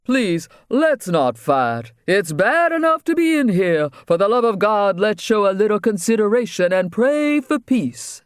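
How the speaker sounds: high, pleading preacher's voice, rising as he begs; pleading reverend. Acted. Reverend in a jail cell begging inmates to stop fighting, high and pleading. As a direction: beg the cell for peace like a nervous preacher.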